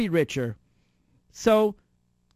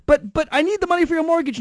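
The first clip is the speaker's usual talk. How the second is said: mock pleading; 11 semitones higher, 6 dB louder, faster than usual. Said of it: "And you say".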